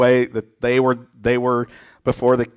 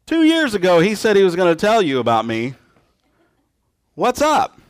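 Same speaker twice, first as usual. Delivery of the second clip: much higher, sneering accuser's voice; resentful tattletale; 9 semitones higher than usual. Retold or imitated. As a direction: point out the guilty guy mockingly, high up. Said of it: "Joseph doesn't say".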